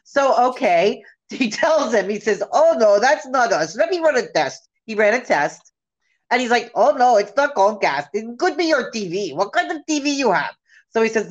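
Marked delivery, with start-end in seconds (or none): 2.5-4.7 put-on Indian support-agent accent; imitated call-center accent. Support agent denying fault to a customer, mock Indian accent. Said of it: "it's the accent I hear every time". 6.8-10.6 put-on Indian support-agent accent; imitated call-center accent. Support agent denying fault to a customer, mock Indian accent. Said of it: "it's the accent I hear every time".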